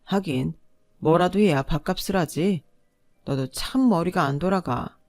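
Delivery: sneering husband. Acted. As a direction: jab at her with a mocking, belittling edge. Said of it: "저를 보기만 하면 빈정거렸어요".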